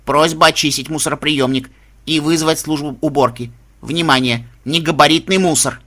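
creaky machine announcement; lightly voiced robot bin; metallic robot voice. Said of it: "металлический голос машины".

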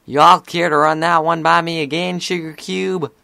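protective big sister, high and loud; Applejack. A narrator's reading. Older sister demanding her sister repeat that, sternly protective. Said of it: "shooting glare of a protective sister".

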